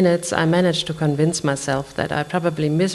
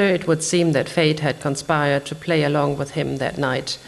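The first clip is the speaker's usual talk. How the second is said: ordinary delivery, nothing marked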